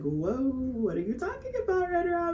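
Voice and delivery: high, breaking, frightened question; scared confusion. Retold or imitated. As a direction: recoil in fear and confusion. Frightened by strange words.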